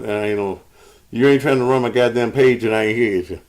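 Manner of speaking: winded, talking between breaths. Real, not acted. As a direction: speak while still panting. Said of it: "I'm out of breath".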